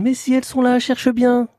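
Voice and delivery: high, far-off small voice; distant little voice. Acted. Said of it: "on entend une petite voix lointaine".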